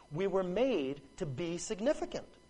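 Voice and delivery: made stressed and pressed with falling tune.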